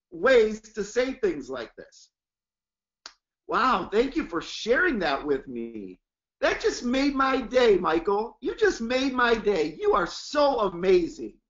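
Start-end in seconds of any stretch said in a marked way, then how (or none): 3.5-11.4 enthusiastic praise. Shown as a demonstration. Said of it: "listen to my tonality".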